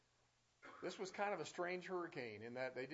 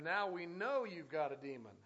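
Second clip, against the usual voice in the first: mocking; 2 semitones higher, 6 dB louder than usual. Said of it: "They're going to mock the Lord".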